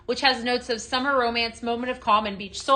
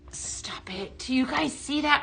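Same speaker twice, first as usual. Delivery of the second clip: breathless, hushed gasp of wonder; real awed whisper to viewers; amazed whisper; 6 dB quieter than usual. Real, not acted. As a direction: whisper it like you can't believe your eyes. Lights off, amazed at glowing cross.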